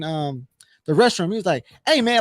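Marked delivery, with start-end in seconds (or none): 1.9-2.2 retold mad call. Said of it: "he was mad at me".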